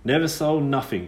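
a lightly voiced country girl, curious; old rustic girl, surprised and teasing; lightly voiced ghost girl, brisk and wary. Witch girl Liza's voice.

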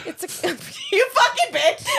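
laughing, slow and high; laughing mock insult. Real, not acted. Friend ruins her joke.

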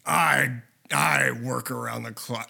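hint of a low, slow Harrison Ford rasp; Harrison Ford impression. Friend mocks Harrison Ford's line, slow and low. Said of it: "Just the way he's like".

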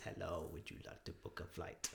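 low, soft automated phone robot; flat machine-like IVR prompt. Pretend. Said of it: "Is that your robot voice?".

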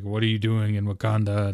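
lightly imitated deep hero voice; a hint of a deep-voiced king. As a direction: deepen it a touch, playing the big man. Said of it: "his voice gets a little deeper".

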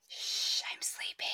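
whispered sleepy shush; pretending to sleep. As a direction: hush them from under the covers.

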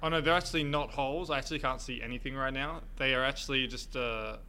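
muffled behind a fencing mask. Real, not acted. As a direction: speak through a fencing mask. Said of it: "the speaker has a fencing mask on".

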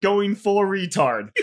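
ad disclaimer read aloud. Pretend. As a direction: recite the small print. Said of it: "I have to read this disclaimer perfectly word for word".

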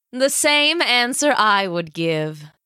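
very slow, lordly villain queen; regal dark lord. Acted. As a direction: command her to kneel. Villain approves coolly.

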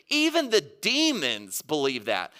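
slow, pointed challenge; slow, sarcastic put-down; throwing down the gauntlet. Acted. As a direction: deliver it slowly as a challenge. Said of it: "throws down the gauntlet".

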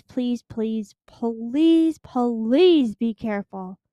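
earnest begging, building up; pleading. Real, not acted. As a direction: beg them, leaning harder on each please. Begging listeners to avoid scams.

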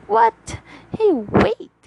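high, loud startled call; surprised call. Acted. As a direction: call out after her, startled. Left alone, calling after her.

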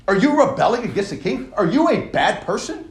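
accusing taunt. Acted. Voicing the opponents' accusation.

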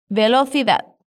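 Castilian accent, the c of "Velocidad" as th; Spanish accent. Shown as a demonstration. Teacher repeats the word for learners, Spanish accent. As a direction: demonstrate the word in a Spain accent. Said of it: "también con el acento español".

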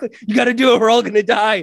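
high, urgent retold warning; mock panic. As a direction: lightly act a frantic cartoon character. Acting out cartoon panic.

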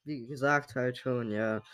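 sick, congested voice; talking with a blocked nose; stuffy nose. Real, not acted. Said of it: "man hört's vielleicht ein bisschen".

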